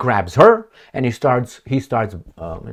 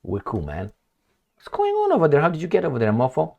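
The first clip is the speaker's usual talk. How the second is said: much higher mocking tough-guy voice; mock American; 4 semitones higher, 4 dB quieter than usual. The Americans confronting Russia, mocking high put-on voice. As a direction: sneer it like a street tough. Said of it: "will the Americans say".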